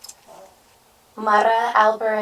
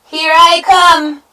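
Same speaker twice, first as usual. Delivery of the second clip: slow, loud, high battle cry; big goat's war cry; charging shout; 11 semitones higher, 14 dB louder, slower than usual. A narrator's reading. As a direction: stretch out each word as you charge. Big goat charges the troll.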